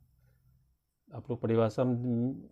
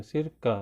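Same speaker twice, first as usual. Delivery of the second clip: सिर का with a slight break after सिर; pause between words; 3 semitones higher than usual. Shown as a demonstration. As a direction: split सिर from का. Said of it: "थोड़ा सा भी रुकेंगे". (सिर ... का, थोड़ा रुककर)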